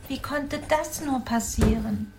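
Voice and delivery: lightly voiced mother hedgehog, a touch of alarm, sniffing nuff nuff; mild dismay with little sniffs; startled mother hedgehog. Mother hedgehog looking into the fridge, mildly startled. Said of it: "Rief Frau Igel erschrocken aus".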